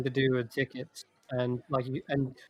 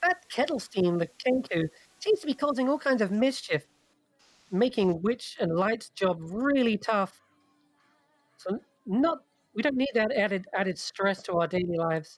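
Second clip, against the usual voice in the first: high pixie character voice throughout; 7 semitones higher than usual. Describing what the listener hears at the Witchlight Carnival: a pixie's voice. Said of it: "you hear in a pixie's voice".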